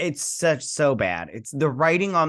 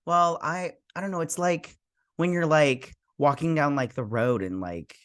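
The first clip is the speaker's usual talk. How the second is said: hesitant, filler-laden Gen Z parody; mock a rambling Gen Z talker; mock Gen Z princess. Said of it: "talk like a Gen Zer".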